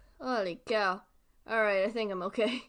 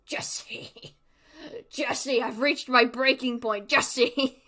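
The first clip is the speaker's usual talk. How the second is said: a hint of an intense Walter White; lightly voiced Walter White pleading to Jesse; Walter White impression; 3 dB louder, slower than usual. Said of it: "like Breaking Bad".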